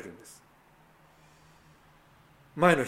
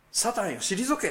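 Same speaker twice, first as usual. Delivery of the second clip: stern rebuke; 9 semitones higher, 3 dB louder, slower than usual. Retold or imitated. Jesus rebukes Peter as Satan.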